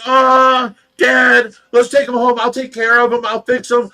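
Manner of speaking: retold wailing plea; pleading shout. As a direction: beg Dad to spare the hurt animal. Child pleading with dad for raccoon.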